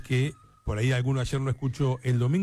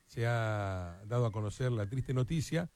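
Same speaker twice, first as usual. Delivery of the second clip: quiet, grave tribute; somber; 3 dB quieter than usual. Real, not acted. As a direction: break sad news gently, with respectful pauses. Announces a former coach's death.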